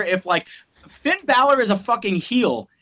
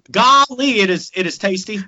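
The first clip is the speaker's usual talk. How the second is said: mock Texan, louder on golly; horrendous Texas accent; 5 dB louder than usual. Texan praising enchiladas, hammed-up Texas accent. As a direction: play a folksy Texan in a bad accent. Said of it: "my horrendous Texas accent".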